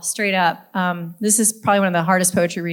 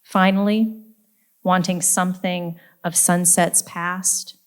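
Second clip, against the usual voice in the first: measured poem recital with deliberate pauses between phrases; poetry reading. Acted. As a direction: read it as a poem, lingering on line endings. Reads own poem aloud.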